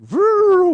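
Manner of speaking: high, loud engine roar; loud engine vroom. Retold or imitated. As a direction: roar like a swooping cop car. Cop cars swoop in.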